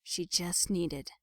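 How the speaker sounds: ominous whisper. A narrator's reading. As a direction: let the sinister truth sink in. Ominous realization narrated.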